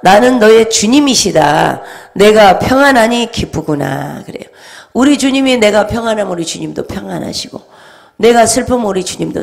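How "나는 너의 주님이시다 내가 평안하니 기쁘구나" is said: slow, louder solemn voice of the Lord; the Lord speaking. Retold or imitated. The Lord telling her he is pleased, slow and solemn. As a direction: proclaim it slowly like God speaking. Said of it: "주님께서 말씀하셨습니다".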